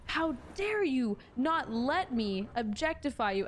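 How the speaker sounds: slow, put-on indignant troll voice; mock outraged troll, drawn out; mock troll outrage. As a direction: play the offended troll, slowly. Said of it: "they're like".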